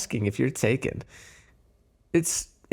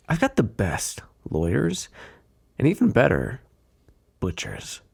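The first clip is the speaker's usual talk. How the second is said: veiled threat. Acted. Mob boss warning a detective off, veiled threat.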